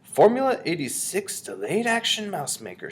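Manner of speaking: high, wondering label reading; reading aloud. A narrator's reading. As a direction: read out each word with relish. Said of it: "read the label aloud".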